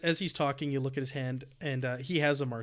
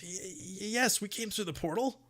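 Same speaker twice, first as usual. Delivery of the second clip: hesitant, higher-pitched stutter; twitchy stammer; 5 semitones higher, 3 dB quieter than usual. Acted. Game master as nervous halfling answering rescuers, twitchy stammer. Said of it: "has a little twitch when you say that".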